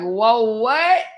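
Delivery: rising high disbelief; squeaky startled what; shocked whoa what. Retold or imitated. To husband about the hack: high shocked whoa. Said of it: "I was like".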